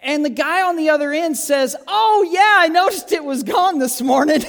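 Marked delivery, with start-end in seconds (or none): 1.9-4.4 casual owner. Retold or imitated. Owner casually answers the phone.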